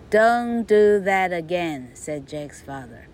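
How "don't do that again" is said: stern scolding. Acted. Father scolding Jack.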